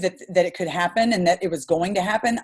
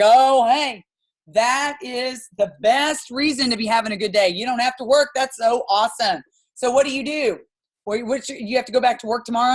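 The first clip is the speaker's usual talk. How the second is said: raised, quick, delighted cashier; excited cashier voice; 4 semitones higher than usual. Retold or imitated. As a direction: gush like an impressed clerk. Cashier voiced in retold chat.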